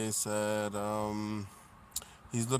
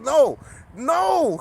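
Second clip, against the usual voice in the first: voicing the cat; 13 dB louder than usual. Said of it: "He's like".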